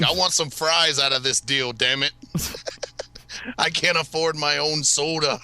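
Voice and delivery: lightly voiced Canadian impression; mock-demanding Canadian complainer; a hint of a hammy Canadian voice; Kevin Smith's Malcolm Ingram. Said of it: "I pull out Kevin's Malcolm".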